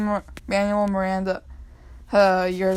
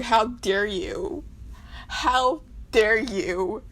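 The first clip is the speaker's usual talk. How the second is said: mock indignation; much slower than usual. Mock scolding Hamilton.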